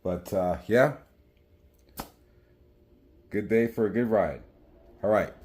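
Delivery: muffled, speaking through a helmet; talking inside a full-face helmet. Real, not acted. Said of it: "Sorry for the wind noise".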